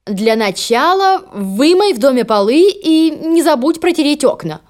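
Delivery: slow, commanding stepmother; bossy stepmother. Acted. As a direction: order her around haughtily.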